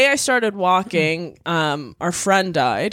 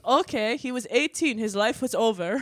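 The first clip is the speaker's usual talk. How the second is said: flat mock mom voice; 7 dB quieter than usual. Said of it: "She goes".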